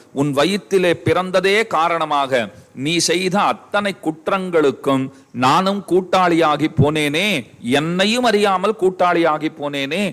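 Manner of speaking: slow, stretched-out acted lament; lamenting wail. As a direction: bewail your guilt, drawing out each phrase. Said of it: "என்று பலவாறாக கதறுகிறான்". (நீட்டி நிதானமாகப் புலம்புவது)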